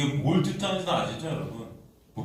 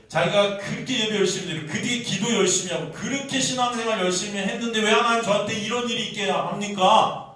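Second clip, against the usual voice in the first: resentful complaint; 6 semitones higher than usual. Acted. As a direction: pile up grievances, pushing each one. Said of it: "하면서 불평하고 원망하고". (높고 큰 소리로 원망하듯)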